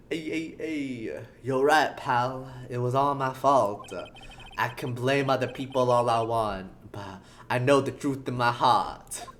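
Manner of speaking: toned-down put-on detective voice; lightly voiced crestfallen cop, bluster gone; Gumshoe, subdued. Detective admits it was all his fault, mildly dejected. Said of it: "being quiet".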